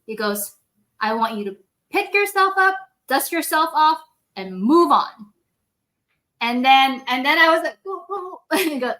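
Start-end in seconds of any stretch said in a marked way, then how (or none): 1.0-5.3 raised, emphatic urging; retold firm pep talk. Retold surgeon telling the tearful rep to recover, firmly encouraging. 7.9-8.4 small high, soft whimper; mock sniffly crying. Retelling her tearful reply to the surgeon, mock whimpering. Retold holding back tears after bawling.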